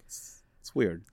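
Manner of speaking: hushed aside; whisper. Real, not acted. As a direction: drop to a whisper.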